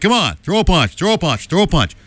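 mock goading. Host imitating Italians trying to pick a fight, mock goading. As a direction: egg them on like a mock brawler. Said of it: "try and pick a fight with you".

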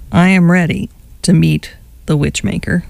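flat, dry sarcastic echo; deadpan sarcastic. Real, not acted. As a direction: say it deadpan, not excited at all. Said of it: "Can't you tell?".

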